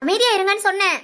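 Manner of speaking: sharp rebuke that allows no argument; angry command. Acted. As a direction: silence them with an irritated order. Angrily silences a relative.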